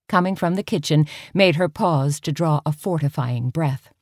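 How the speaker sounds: usual speaking voice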